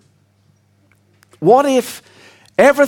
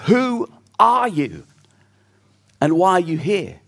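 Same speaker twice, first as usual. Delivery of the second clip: reflective question; 2 semitones lower than usual. Shown as a demonstration. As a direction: put the big life question to the congregation. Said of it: "those are the biggest questions in life".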